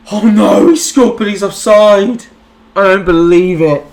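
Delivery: loud, high cry of disbelief; real anguished yell; anguished outcry. Real, not acted. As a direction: shout in real dismay at the disallowed goal. Offside goal disallowed, dismay.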